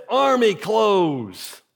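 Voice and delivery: very slow, stretched-out chant reply; player's answer. Retold or imitated. Player answering the coach, imitated slow holler. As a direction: imitate a player calling back, drawing out each word. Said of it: "somebody says".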